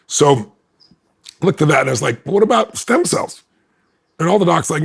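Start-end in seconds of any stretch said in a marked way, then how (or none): 2.2-3.4 high, slow, hopeful ask; hopeful question. Retold or imitated. Asking doctors about stem cells, hopeful. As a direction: float the idea hopefully.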